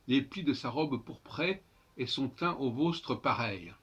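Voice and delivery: put-on measured recital of old verse; traditional poem reading. Shown as a demonstration. Teacher reads Ronsard the traditional way first, measured recital. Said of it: "je vais le lire d'abord de façon traditionnelle".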